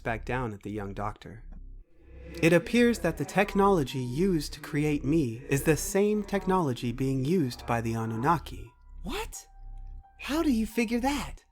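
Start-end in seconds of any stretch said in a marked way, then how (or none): 2.4-8.7 higher, precise machine voice; computer character, reporting. Acted. Computer reveals its origin to young doctor, formal machine voice. 9.0-11.4 high-pitched, incredulous questioning; startled disbelief. Acted. Young doctor reacts to computer's revelation, startled and high.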